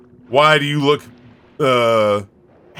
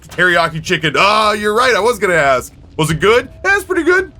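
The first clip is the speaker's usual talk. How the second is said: overexcited streamer; 4 semitones higher than usual. Retold or imitated. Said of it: "And I go".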